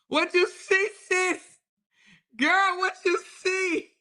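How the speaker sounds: high, excited asking; eager curiosity. Real, not acted. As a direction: lean in dying to know. Excited curiosity after laughing.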